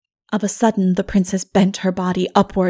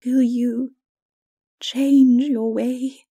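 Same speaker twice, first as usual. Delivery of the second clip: raised, very slow, pleading question; gentle plea; 5 semitones higher, 4 dB louder, much slower than usual. A narrator's reading. Mara asks Lilith to change her ways, slow and pleading.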